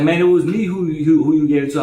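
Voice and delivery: high, pushed-up voice of a guy claiming his due; an inmate quoted insisting it was him; imitating the inmate.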